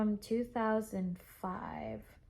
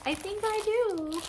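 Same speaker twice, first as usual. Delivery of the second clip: very high, loud singsong answer; imitated seller; 11 semitones higher, 5 dB louder than usual. Imitating seller confirming she has it, high singsong. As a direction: mimic a teasing high-pitched reply.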